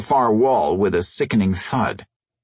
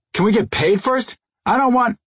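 high squeaky alien voice; 12 semitones higher than usual. Acted. Small alien asks for payment.

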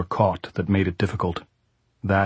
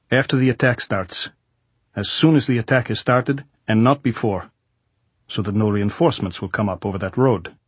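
soviet soldier; 2 semitones higher than usual. Acted. Goltz gives orders.

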